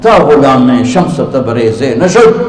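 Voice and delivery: slow, measured verse recital; poetic recitation. Acted. Preacher opening his sermon with slow verse. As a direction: savour each word of the couplet.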